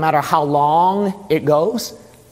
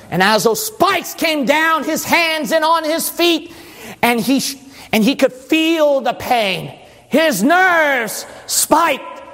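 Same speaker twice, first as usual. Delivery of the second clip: high-energy pulpit storytelling; forceful preaching; 8 semitones higher than usual. Acted.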